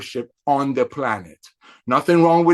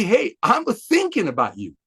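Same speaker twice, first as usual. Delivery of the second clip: drawn-out, higher-pitched friendly greeting; joyful, excited; 4 semitones higher than usual. Shown as a demonstration. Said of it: "be excited, and say".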